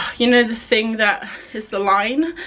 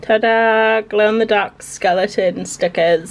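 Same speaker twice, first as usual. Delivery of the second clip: excited; 5 dB louder, slower than usual. Real, not acted. Reveals glowing stickers.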